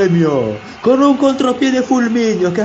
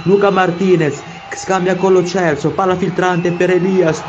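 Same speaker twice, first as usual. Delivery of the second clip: breathless italian goal commentary; 4 semitones higher than usual. Acted.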